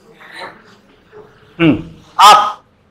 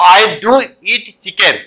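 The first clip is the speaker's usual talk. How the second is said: very slow, with "do" leaned on hard; "I do eat chicken", stretched out, "do" pressed; stress on do; much slower than usual. Shown as a demonstration. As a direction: hit the word "do" to insist. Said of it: "ऐसे जोर से दे करके बोला".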